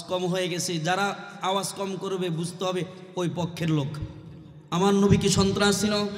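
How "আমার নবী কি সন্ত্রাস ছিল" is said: raised, level-pitched rhetorical question; rallying the crowd. Real, not acted. Preacher prompting the crowd to answer, raised rallying call. Asks again after complaining of low voices.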